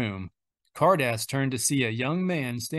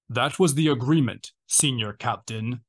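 a menacing Dark Lord grinding out his words; ground out. Acted. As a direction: push it out through gritted teeth, menacing. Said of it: "Vader ground out".

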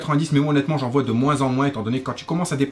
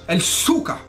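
mock Russian; 4 semitones higher, slower than usual. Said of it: "direct réponse cash".

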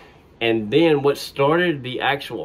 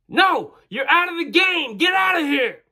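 exasperated shout; 4 dB louder than usual. Retold or imitated. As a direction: shout him out of the game. Coach yelling back.

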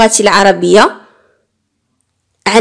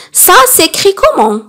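model question; 8 semitones higher than usual. Shown as a demonstration. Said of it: "teacher models the question".

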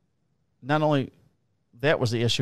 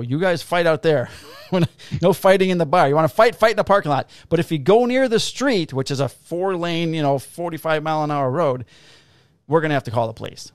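loud, raised bouncer bark, rushed at the end; bouncer yelling; 5 semitones higher, 5 dB louder than usual. Retold or imitated. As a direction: yell the rules at drunk fighters.

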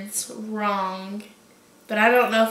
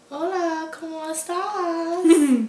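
clumsy Spanish; 5 semitones higher, slower than usual. Shown as a demonstration. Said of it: "kinda speak Spanish".

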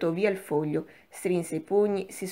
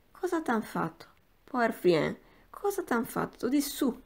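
mock pity; 4 semitones higher than usual. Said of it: "rispondendo perfidamente ai suoi guaiti".

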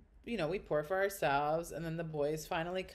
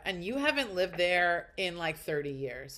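retold angry retort; 6 dB louder than usual. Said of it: "I'm so angry".

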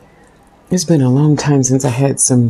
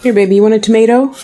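pet talk; 6 semitones higher, faster than usual. Real, not acted. Offering food to a pet.

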